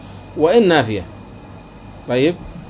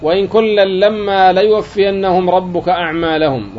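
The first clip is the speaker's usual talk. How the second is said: slow, measured Quranic reading; slow verse recitation; 3 semitones higher, slower than usual. Shown as a demonstration. Teacher reciting the verse to students, slow and measured. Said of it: "وقال تعالى".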